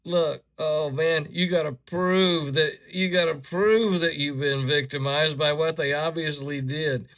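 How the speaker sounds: loud exasperated rant. Real, not acted. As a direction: vent it loudly, fed up. Ranting at YouTube policy.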